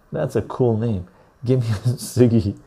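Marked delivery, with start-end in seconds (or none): 1.5-2.6 chuckling while saying Give me a ciggy; laughing mid-phrase; laughing through words. Real, not acted. Laughing while reading name.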